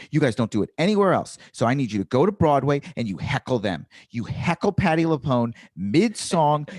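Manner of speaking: emphatic, indignant stage rant; heckler rant. Acted. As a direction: challenge the heckler with mounting indignation. Performing the rehearsed rant at hecklers.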